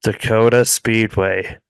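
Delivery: flat monotone announcer; deadpan monotone read. Pretend. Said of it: "I'm good at saying things too in a monotone".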